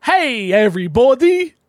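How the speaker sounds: "Hey, everybody" with "every" drawn out long and high; mock reading of "everybody"; stretched every. Shown as a demonstration. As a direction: read it out with a long, odd "every". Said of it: "Is that meant to be your version of hello?".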